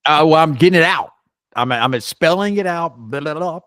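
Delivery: laughing self-defense; flustered protest. Real, not acted. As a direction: rush out the excuse. Defending himself against teasing.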